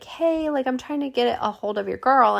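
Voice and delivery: receptionist. Retold or imitated. Receptionist voiced in retold story.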